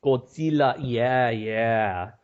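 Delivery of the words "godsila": Godzilla as "Gold-seela", Spanish-style; echoed Spanish pronunciation. Retold or imitated. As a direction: echo Godzilla with S and "ee". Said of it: "They say Godzilla".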